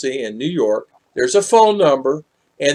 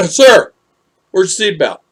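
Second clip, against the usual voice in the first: trooper voice; 5 semitones higher, 5 dB louder than usual. Retold or imitated. Retold trooper stopping him.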